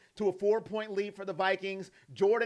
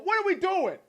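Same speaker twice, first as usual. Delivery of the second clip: much higher exasperated cry; angry quarterback venting, hammed-up; mock frustrated quarterback; 9 semitones higher, 3 dB louder than usual. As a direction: throw up your hands in disbelief. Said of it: "If I'm Joe Flacco".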